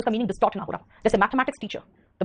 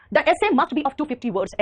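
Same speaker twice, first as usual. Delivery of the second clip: slow dictation; 3 semitones higher, much slower than usual. Shown as a demonstration. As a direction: read each word out slowly and clearly. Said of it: "ऐसे को दो सौ पचास शब्दों का होना चाहिए".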